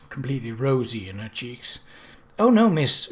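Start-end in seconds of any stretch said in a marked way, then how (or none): 2.4-3.1 higher and louder flustered protest; embarrassed maid hurrying to deny. A narrator's reading. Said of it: "she said, flustered".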